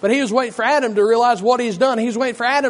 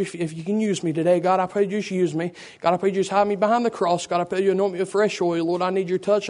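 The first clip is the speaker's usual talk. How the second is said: prayer. Acted. Leads the opening prayer.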